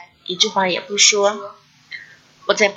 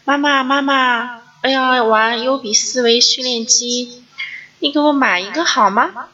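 put-on higher child's voice calling out for mom; imitating her toddler calling; 4 semitones higher than usual. Toddler calls to mom, begging for a toy, in a higher imitated child voice. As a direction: play the little kid calling to mom for a toy. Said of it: "于是就朝着我喊".

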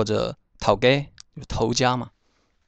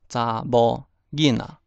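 slow careful repeat. Shown as a demonstration. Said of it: "小姑娘就是查某囡仔".

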